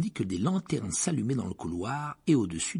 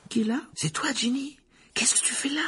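startled questions. Acted. Girls collide in the dark.

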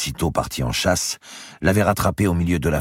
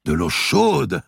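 mock outcry; 10 semitones higher, 4 dB louder, slower than usual. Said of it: "s'écria Gournay".

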